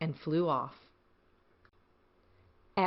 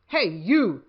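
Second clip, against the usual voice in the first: grouchy ladybug; 5 dB louder than usual. Acted. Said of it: "said the grouchy ladybug".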